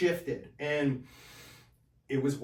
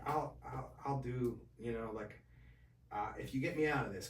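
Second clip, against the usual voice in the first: whispered bargain; 6 dB quieter than usual. Retold or imitated. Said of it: "I was like".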